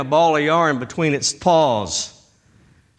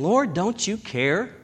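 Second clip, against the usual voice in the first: soft, pleading inner voice; half-voiced secret prayer of doubt; inner plea; 5 dB quieter than usual. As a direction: hush it like a private thought to God. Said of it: "But you're thinking".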